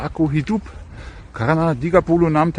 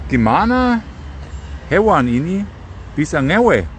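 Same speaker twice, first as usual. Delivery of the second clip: astonished exclaim; 5 semitones higher than usual. Real, not acted. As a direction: burst out in disbelief. Astonished question about animal. (seruan heran yang keras)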